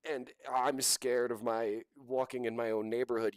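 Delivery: mimicking a fake-scared influencer; mock tearful whine. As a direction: parody her fear and tears. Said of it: "and she's like".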